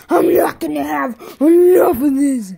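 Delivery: loud, crying-out refusal; defiant yell. Pretend. Toy bear yelling at his rival, loud and crying out. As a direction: bellow it like you refuse to stay down.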